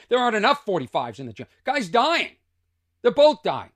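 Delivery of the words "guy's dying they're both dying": 1 gleeful. Real, not acted. Laughing recounting their reaction.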